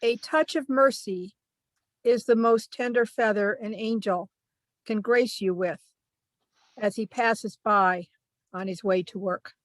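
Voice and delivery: measured verse, pausing after each phrase; poetry reading. Acted. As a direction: recite it line by line, letting the endings fall. Reads own second poem aloud.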